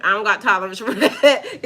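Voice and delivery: laughing through the words; amused disbelief with a laugh; giggling while reading the comment. Real, not acted. Laughs at the message.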